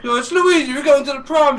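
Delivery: high, loud cartoon plumber; Luigi. Retelling Luigi greeting the princess, high character voice. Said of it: "He's like".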